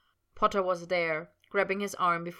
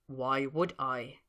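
Snape's line; 3 semitones lower, much slower than usual. A narrator's reading. Snape voiced, slow.

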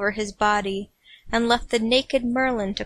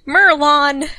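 calling out loud and higher; shout; 4 semitones higher, 7 dB louder than usual. Acted. Arthur shouting for Merlin, louder each time. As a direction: yell the name.

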